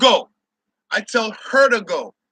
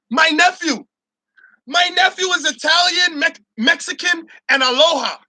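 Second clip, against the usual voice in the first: higher mocking girly voice; mock white girl voice; 6 semitones higher than usual. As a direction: ham up her proud tone. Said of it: "She said".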